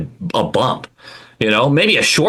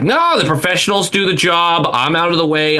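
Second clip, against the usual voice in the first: higher-pitched mock owner protest; pretend hands-off owner; 6 semitones higher than usual. Podcaster imagining owning the Bruins, mock hands-off protest. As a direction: play an owner waving off involvement. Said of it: "I'd like to pretend like".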